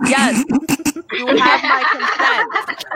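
loud, high, slowed-down mock answer; retold impatient consent through laughter; laughing exasperated yes. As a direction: draw it out loudly while laughing.

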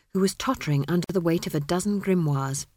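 ordinary delivery

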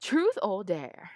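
put-on Rita Skeeter as an old gay man, slowing down; Louis. Writer redoes Louis's line, camp drawling voice. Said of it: "Kinda like Rita Skeeter, but like, an old gay man".

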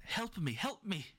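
pleading creature. Acted. Creature cries out in scene.

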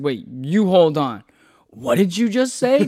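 slow, rising retort to a stranger; indignant challenge. Retold or imitated. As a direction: act out a drawn-out, incredulous double take. Acted confrontation with the chair guy.

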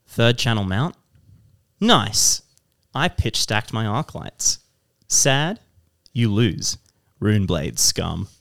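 mock-solemn poetry reading with pauses; haiku recital. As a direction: declaim each short phrase slowly and separately. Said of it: "it's actually a haiku".

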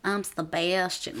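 soft, slow mock-deadpan; drawn out and softly, like an odd boy; imitating a weirdly soft introduction; interesting tone of voice. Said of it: "interesting tone of voice".

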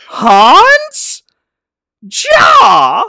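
high, loud call and answer; loud comic shouting back and forth. Acted. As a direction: yell it across the trenches. Joke climax, both soldiers calling.

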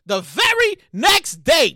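VERY NEXT DAY spaced out slowly; measured, deliberate "very next day"; slow suspenseful setup. Real, not acted. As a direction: stretch each word of "very next day". Storyteller builds suspense by repeating.

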